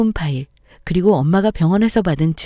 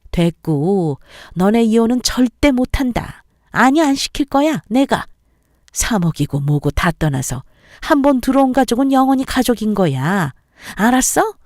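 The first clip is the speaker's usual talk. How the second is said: domineering mother-in-law; 4 semitones higher than usual. Acted. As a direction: lay down the law, no arguing. (단호하게 못박는 시어머니)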